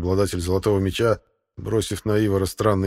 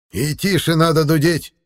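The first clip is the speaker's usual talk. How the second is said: lecturing; 9 semitones higher, 6 dB louder than usual. A narrator's reading. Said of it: "наставительно заметил".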